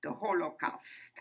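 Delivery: emphatic, measured oratory with weighty pauses; formal testimony speech. Real, not acted. Survivor addressing an audience about the Holocaust, formal and emphatic. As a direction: declaim it firmly, phrase by phrase. Delivers prepared opening of testimony.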